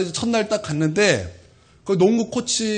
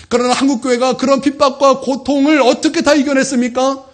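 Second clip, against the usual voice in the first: raised, loud rhetorical question; forceful preaching; 8 semitones higher, 7 dB louder than usual. Acted. Pastor asks how the church endured, preaching forcefully. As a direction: fire the question at the congregation.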